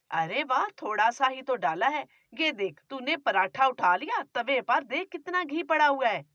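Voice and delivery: scolding, grumbling mother-in-law; a nagging miser of a mother-in-law; stingy mother-in-law. Acted.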